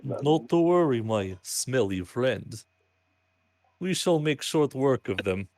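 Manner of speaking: lightly voiced Slavic vampire accent; slow, grand Slavic vampire drawl. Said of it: "I love the stereotypical vampire voice".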